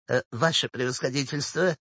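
soft, sweet little smile in the voice; coy, softened wheedling; coquettish. A narrator's reading. Old woman sweetly approaches the official, coquettish. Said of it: "даже кокетливую улыбочку, спросила".

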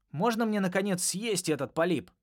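greedy bubbling alien asking; gurgling alien voice. A narrator's reading. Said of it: "спросил Нокс".

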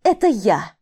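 громкий яростный выкрик; выпали в гневе, атакуя; яростно. Acted. (в ярости бросает)

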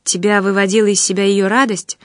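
ordinary delivery

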